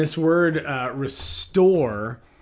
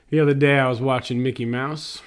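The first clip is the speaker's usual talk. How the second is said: imitating daughter; 4 dB louder, faster than usual. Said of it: "she talks like that".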